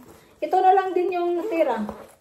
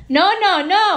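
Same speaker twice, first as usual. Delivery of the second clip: loud no; 5 semitones higher, 8 dB louder than usual. Real, not acted. Mother calls out loudly.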